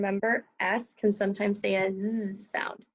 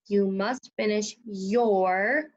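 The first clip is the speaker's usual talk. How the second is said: each word "You must finish your" spaced out slowly; slow dictation; much slower than usual. Shown as a demonstration. Teacher dictating a sentence to second graders, slow. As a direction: dictate it word by word for young spellers. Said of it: "reads whole sentence".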